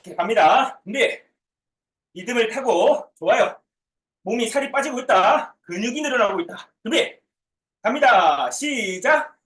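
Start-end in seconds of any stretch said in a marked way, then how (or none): none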